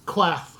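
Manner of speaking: put-on QUOTH said slowly as Old English "kwath", with an open A; Old English pronunciation. Shown as a demonstration. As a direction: say QUAFF with an open A and final TH. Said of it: "sometimes letters aren't pronounced the same way".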